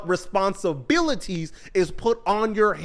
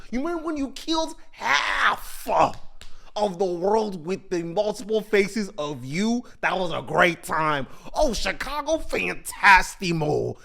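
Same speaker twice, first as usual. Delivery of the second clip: a gleeful, louder villain voice egging him on; taunting dinosaur villain; 3 semitones higher, 3 dB louder than usual. Acted. Dinosaur villain gloating to Mark about his killings, gleeful taunt. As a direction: gloat like a monster at his past kills.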